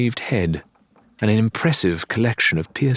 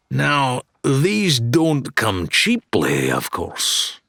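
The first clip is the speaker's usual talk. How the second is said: slow, savoured salesman line; showman dealer; 5 semitones higher, much slower than usual. Acted. Wilbur showing his deluxe swords, savoring the pitch. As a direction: dangle the deluxe model.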